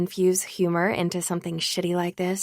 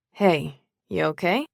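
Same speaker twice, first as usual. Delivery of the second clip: concerned. A narrator's reading. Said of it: "His tone is one of pure concern".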